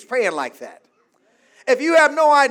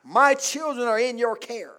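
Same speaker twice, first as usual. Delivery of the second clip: calm prayer. Shown as a demonstration. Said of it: "lay hands on your children and say".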